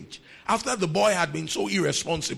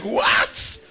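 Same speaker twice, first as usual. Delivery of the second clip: laughing disbelief; 4 semitones higher, 6 dB louder than usual. Retold or imitated. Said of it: "He's like".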